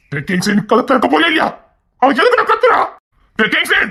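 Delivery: high-pitched, agitated demand; urgent calling out. Acted. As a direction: holler for the door to be opened. Calling for door to open.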